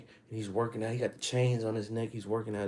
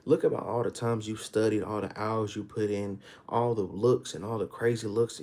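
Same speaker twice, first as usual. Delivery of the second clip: ordinary talk, nothing marked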